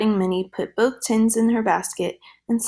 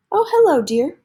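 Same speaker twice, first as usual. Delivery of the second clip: put-on much higher old-lady voice greeting her granddaughter; granny voice; 8 semitones higher, 5 dB louder than usual. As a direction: sing out a high, sweet granny hello. Narrator voices sick grandmother.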